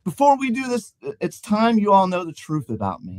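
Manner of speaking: character voice. Acted. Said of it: "said the Laughing Man".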